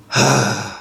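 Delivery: long exhale; steady sigh out; breathing demo. Shown as a demonstration. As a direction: keep the breath flowing out. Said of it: "you're just gonna keep doing that".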